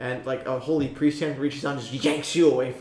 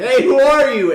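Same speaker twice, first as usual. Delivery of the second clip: shrill, booming, very high, very loud scream; 11 semitones higher, 13 dB louder than usual. Retelling a game scene, acting out a player screaming in a cavern. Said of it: "He screams in this cavern".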